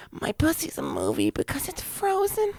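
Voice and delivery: high, soft falsetto woman; breathy mock girl voice; female voice. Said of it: "that's a terrible female voice".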